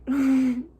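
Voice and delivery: imitated choked-back sob; wordless mock sniffle, fighting tears; holding back tears. Mom after nurse walks away, trying not to cry. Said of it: "trying not to cry".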